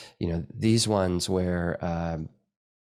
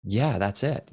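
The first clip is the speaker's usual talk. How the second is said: acting out his own plain reply; matter-of-fact confirmation; 3 semitones higher, slower than usual. Teacher answering underwhelmed students, matter-of-fact confirmation. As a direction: own it with a simple yes. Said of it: "And I'm like".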